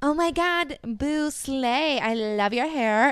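put-on high, gushing girly hype voice; drunk bathroom girl. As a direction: gush like a tipsy girl hyping a friend. Drunk girls hyping in bathroom.

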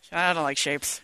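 groggy from anesthesia. Real, not acted. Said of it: "She's so high right now".

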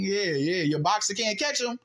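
high-pitched dismissive taunt; mocking retort. Real, not acted. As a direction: rub it in to the losing side. Taunts the complaining fans.

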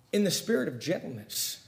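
softly spoken, hushed repeat; gentle. Real, not acted. Preacher repeats the verse for the congregation, gently. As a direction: let the verse land softly.

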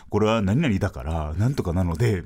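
a hint of a standard-Japanese scientist role. Comic mimics junior's stage role, lightly imitated scientist. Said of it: "標準語で科学者みたいな役してて".

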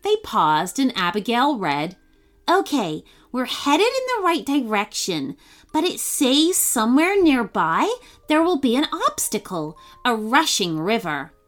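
put-on lively storybook reading for kids; bright children's story read; story narration. A narrator's reading. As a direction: tell it like a bedtime story. Reads a kids' story aloud.

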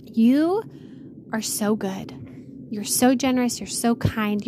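earnest, measured prayer voice; closing prayer. Acted. Podcast host praying over listeners, reverent and earnest.

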